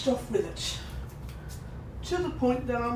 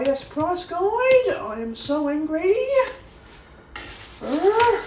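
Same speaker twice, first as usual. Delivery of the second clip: loud angry outburst; 7 semitones higher, 4 dB louder than usual. Real, not acted. Fuming about the price guide.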